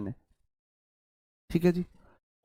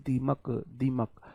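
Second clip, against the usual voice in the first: slow repeat; 3 semitones lower, 8 dB quieter, slower than usual. Shown as a demonstration. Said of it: "वर्मिन मतलब दीमक मेरे भाई".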